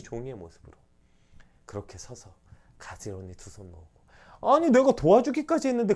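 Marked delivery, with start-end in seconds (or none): 4.4-5.9 loud, high indignant protest; indignant objection. Retold or imitated. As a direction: throw the complaint back in protest. Voicing a complaining believer. (교인의 불평을 흉내 내는 항변조)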